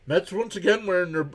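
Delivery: real voice crack mid-sentence. Real, not acted. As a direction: let the voice jump up and crack. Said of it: "How about a voice crack there".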